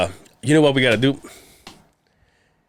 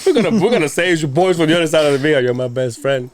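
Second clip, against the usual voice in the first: pretend drunk caller; 5 semitones higher, 3 dB louder than usual. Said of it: "you and I get shit-faced".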